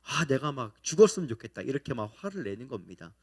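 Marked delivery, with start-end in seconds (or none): 0.0-1.6 mock exasperation, a bit louder; mildly heated, imitated grumbling; retold angry outburst. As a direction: act out a fed-up complaint. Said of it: "뭐라고 화를 내냐면은 막".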